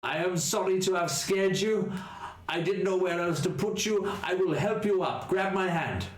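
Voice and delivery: high, gentle ghoulish voice; apologetic ghoul reaching out a hand; Otto the ghoul. Acted. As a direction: speak as a timid, kindly monster.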